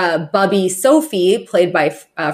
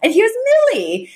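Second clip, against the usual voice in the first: doing Yetta; 13 semitones higher, faster than usual. Retold or imitated. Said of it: "and go".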